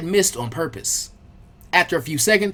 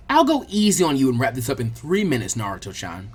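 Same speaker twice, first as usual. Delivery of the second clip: taunted; 4 semitones lower than usual. Acted. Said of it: "she taunted".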